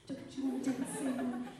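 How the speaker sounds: demonstrating stage delivery. Shown as a demonstration. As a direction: lively coach modelling the performance. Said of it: "You should be".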